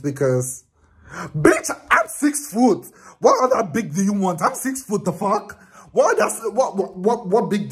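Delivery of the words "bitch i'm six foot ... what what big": offended vlogger sassing a rude fan, in high mock outrage; indignant. Real, not acted. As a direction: toss it back high with attitude. Indignant rant at the girl.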